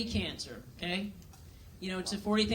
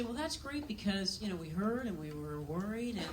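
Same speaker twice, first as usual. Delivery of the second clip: softer, hushed concern; hushed worried friend; 6 dB quieter than usual. Retold or imitated. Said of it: "they say".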